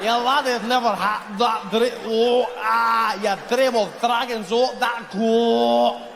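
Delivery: mock Scottish burr, fighting back vomit; slurred Scottish babble with retching vowels, pitched high; queasy Scottish accent. Comic showing Scottish speech as trying not to throw up, queasy Scottish accent. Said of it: "centuries of people trying not to throw up".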